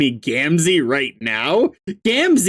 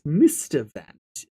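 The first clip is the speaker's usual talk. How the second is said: voice attempt; 3 semitones lower, 3 dB quieter than usual. Shown as a demonstration. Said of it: "find a voice because it's been a while".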